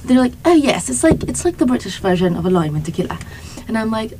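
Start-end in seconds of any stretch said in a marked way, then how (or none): 0.5-3.2 shaky-skilled British imitation, quick delivery; attempted British accent. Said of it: "I don't know how to do a British accent".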